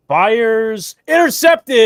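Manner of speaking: high call building to a loud shout; excited play-by-play. Real, not acted. Commentator calls an interception, excited shout. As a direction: build fast in volume and pitch to a shouted climax.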